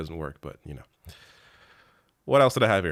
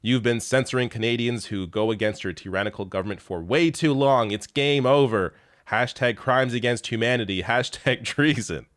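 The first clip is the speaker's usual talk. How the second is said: mock outraged tweet; 3 semitones higher, 3 dB louder than usual. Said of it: "J B Sale ... saying".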